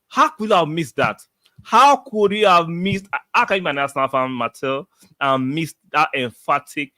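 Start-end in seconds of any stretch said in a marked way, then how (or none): 0.1-4.9 can't believe he slept through it; mock disbelief. Real, not acted. Viewer napped through match.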